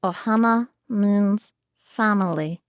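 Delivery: second careful stab at a creature voice; Stitch. Shown as a demonstration. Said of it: "We wanna hear you do Stitch".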